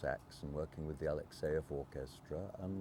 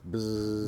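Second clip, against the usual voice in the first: buzzing noise; 4 dB louder than usual. Shown as a demonstration. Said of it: "can you make a buzzing noise".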